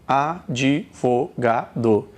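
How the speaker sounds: Advogado slow and low, A, di, vo, ga, do; five syllables. Shown as a demonstration. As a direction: tick off Advogado beat by beat. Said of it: "você tem cinco sílabas".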